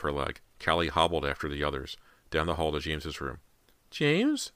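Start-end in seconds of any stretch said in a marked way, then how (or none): 3.9-4.5 high, anxious mother's question; choked out. A narrator's reading. Mother searches for her missing son, choked and high. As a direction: choke out the name, pitched high. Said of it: "Missus Fraser choked out".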